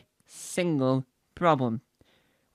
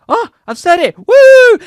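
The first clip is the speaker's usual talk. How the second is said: much higher, louder whoop; triumphant; 16 dB louder than usual. Real, not acted. Amazed at having said it, triumphant whoop. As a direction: burst into a shrieked celebration. Celebrates finally saying the word.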